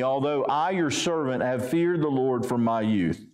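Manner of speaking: measured, even Bible reading voice; a gently formal reading from the pulpit; scripture reading. Acted. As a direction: read the passage with steady weight. Preacher reads scripture aloud.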